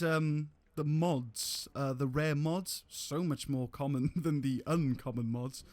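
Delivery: glitchy robotic mic audio; distorted, robot-like sound. Real, not acted. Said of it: "you sound like a robot".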